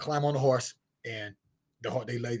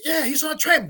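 higher, louder retold cowboy with attitude; a cowboy sneering back, raised; mock attitude; 6 dB louder than usual. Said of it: "started kinda getting an attitude".

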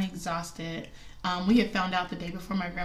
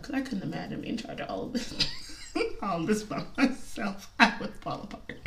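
laughing. Real, not acted. Laughing at imagining falling apart.

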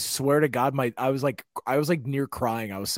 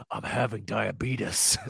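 mock feeble plea; 5 semitones lower, 8 dB quieter, slower than usual. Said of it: "You grab her".

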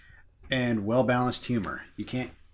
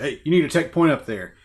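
louder, higher shouted-over order; mock commanding; 4 semitones higher, 6 dB louder than usual. Captain America sends Hawkeye up high, mock commanding. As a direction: lightly imitate a captain calling across.

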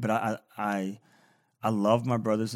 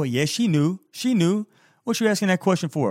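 mock exasperated answer; 8 semitones higher, 4 dB louder than usual. Mock answering the carol's question.

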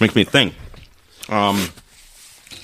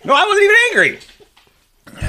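slow, very high hammed-up protest; drawn-out mock yell; 6 dB louder, slower than usual. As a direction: stretch it out like a cartoon tantrum. Repeats denial, bigger.

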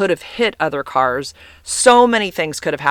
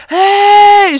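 sharp, much higher and louder shout; retold yell; 11 dB louder than usual. Park ranger yelling at a car rolling past her booth, loud shout. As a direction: bark it like a ranger stopping you. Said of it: "and she yell".

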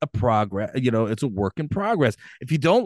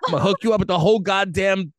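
hammed-up lover; 4 semitones higher, faster than usual.

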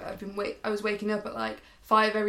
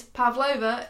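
louder, uncertain Antipodean accent; Australian or New Zealand accent; 5 dB louder, slower than usual. Shown as a demonstration. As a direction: try a Kiwi accent that could be Australian. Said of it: "is that Australian or is it New Zealand".

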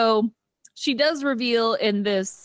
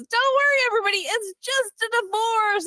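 mock yell; 13 semitones higher than usual. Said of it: "yells out to the office".

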